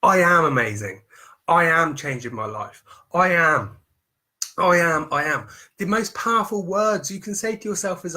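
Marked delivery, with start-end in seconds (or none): 0.0-5.5 firm, sure self-affirmation, louder on the first line; confident affirmation. Shown as a demonstration. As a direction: declare it to yourself like it's already true. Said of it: "Put it into your present tense".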